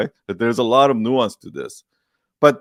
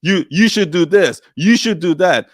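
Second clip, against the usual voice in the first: higher, slow, preachy lecturing; 5 semitones higher, 3 dB louder than usual. Shown as a demonstration. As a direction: wag a finger at them. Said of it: "it ends up sounding preachy".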